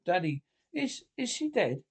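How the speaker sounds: a lift of hope on she; hint of hope. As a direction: daughter secretly hoping mother died. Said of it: "with a hint of hope".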